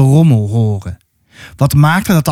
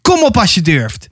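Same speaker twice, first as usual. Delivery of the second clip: raised-pitch taunt; shouting; 4 semitones higher than usual. Acted. Atta taunts the huge mammoth, mildly acted shout. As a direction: throw out a dare in a mild, acted shout. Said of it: "schreeuwde ze".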